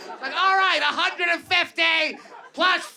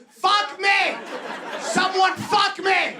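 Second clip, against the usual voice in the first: shouting to the room in the rooster voice; horny rooster; 3 semitones higher, slower than usual. Retold or imitated. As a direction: replay the rooster yell for a latecomer. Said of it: "see me on stage going".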